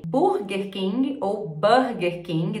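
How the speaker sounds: Burger said two ways, slow and deliberate; two regional pronunciations. Shown as a demonstration. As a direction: contrast the two regional vowels in "Burger King". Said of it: "dependendo da região".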